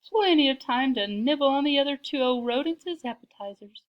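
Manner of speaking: loud, high, scheming glee; chuckling to himself over the scheme; gleeful, giggly cat. A narrator's reading. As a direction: gloat aloud like a delighted villain cat. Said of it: "he giggled".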